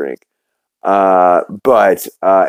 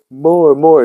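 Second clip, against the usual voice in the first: mock-eager, higher-pitched urging; eager goading; 7 semitones higher than usual. Lois baiting Nigel into telling her, eager goading. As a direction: egg him on in a raised voice.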